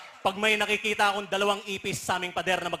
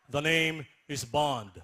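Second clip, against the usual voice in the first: low, slow mock Korean accent; 5 semitones lower, 4 dB quieter than usual. Korean friend auditioning as James Bond, low Korean accent. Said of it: "best friend ako, Koreano".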